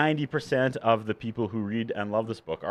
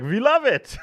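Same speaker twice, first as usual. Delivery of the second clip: high, loud gleeful cheer; Swedish publishers; 12 semitones higher, 5 dB louder, slower than usual. Retold or imitated. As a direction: imitate delighted Swedish publishers, pitched way up. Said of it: "the Swedish publishing company were like".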